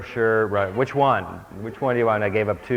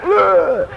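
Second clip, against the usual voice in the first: loud high heave grunt; a sudden strained grunt of lifting; effortful grunt; 9 semitones higher, 8 dB louder than usual. Acted. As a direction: grunt as if hauling someone up. Big hand grabs you.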